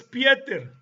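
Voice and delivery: Pieter said as in Afrikaans; Afrikaans pronunciation. Shown as a demonstration. Lecturer listing Pedro in other languages, Afrikaans pronunciation of Pieter. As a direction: give Pieter its Afrikaans form, slowly. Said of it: "que en afrikaans es".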